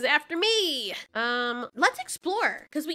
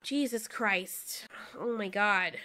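slow breathless whisper; tense whisper; 6 semitones lower, 6 dB quieter, much slower than usual. Real, not acted. Tense waiting over meat.

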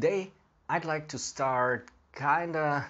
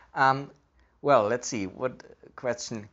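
speaking while puffing pipe; talking around pipe stem; 4 dB louder than usual. Real, not acted. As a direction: pipe clenched between lips. Seen 1: pipe stem held at lips throughout labelled words.

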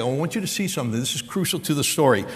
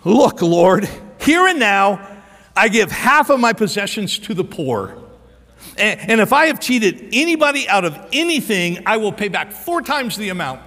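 loud opening, higher emphatic vow; bold declaration; 4 semitones higher, 4 dB louder than usual. Retold or imitated. Preacher voices Zacchaeus standing to pledge his wealth, bold declaration. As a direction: proclaim it out to the Lord.

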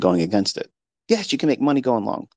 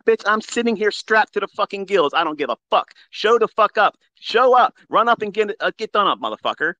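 angry rant; 11 semitones higher than usual. Real, not acted. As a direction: shout down the trolls. Ranting at threatening trolls.

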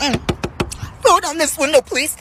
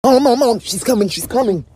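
urgent warning; 3 semitones lower, faster than usual. Acted. Kid warning mom urgently.

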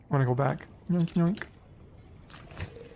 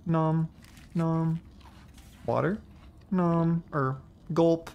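eating noises; 4 dB quieter, slower than usual. Pretend. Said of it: "How do I eat it".

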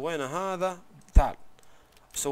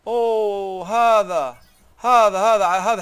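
louder and higher, thrilled; excited outburst; 4 semitones higher, 8 dB louder, much slower than usual. Real, not acted. Gamer thrilled at finding a great spear, loud and excited. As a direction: blurt it out, delighted by the find.

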